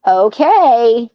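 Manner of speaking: lightly voiced stern dad, drawn out. Husband answering his wife on the phone, mild dad voice. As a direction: put on a hint of a stern dad. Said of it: "dad voice kicked in".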